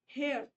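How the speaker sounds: हेयर said as one glide from e to a; gliding diphthong. Shown as a demonstration. Teacher shows हेयर as one gliding diphthong. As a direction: glide smoothly through हेयर. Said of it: "अ ए की sound एक साथ आ रही है".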